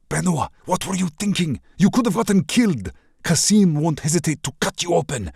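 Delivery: high, loud, scolding lover; furious worry. Acted. Infuriated prince scolds the princess, high and loud. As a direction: yell at her out of fear.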